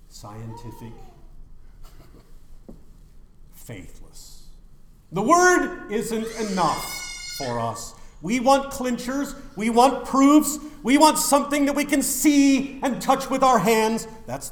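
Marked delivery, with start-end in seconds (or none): 5.1-14.1 loud, high, slow preacher build; fiery preaching. Acted. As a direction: preach it hard to the crowd. Preaching at full force.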